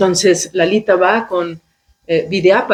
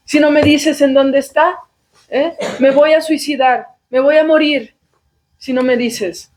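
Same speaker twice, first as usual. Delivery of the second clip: pleading daughter; 5 semitones higher than usual. Retold or imitated. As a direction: beg dramatically, threatening to take poison. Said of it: "una de las armas mortales que utilizan las mujeres". (hija suplicando y amenazando en voz aguda)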